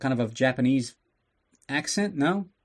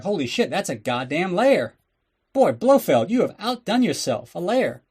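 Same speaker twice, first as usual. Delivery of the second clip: mock amazed Bond; 5 semitones higher than usual. Bond marvels at volcano lair.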